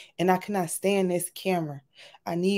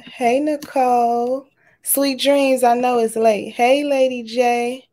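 loud; 4 semitones higher, 6 dB louder, slower than usual. Real, not acted. Loud greetings to chat.

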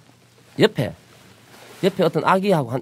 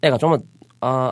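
usual speaking voice

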